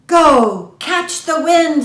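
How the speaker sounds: high, loud cry to run; urgent shout. Acted. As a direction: yell her off into the wind. Stag urges Antelope on.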